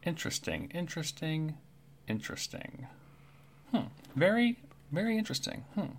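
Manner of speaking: soft muttering to himself, trailing into a whisper; hushed, curious bird muttering; Kenku mumbling. Acted.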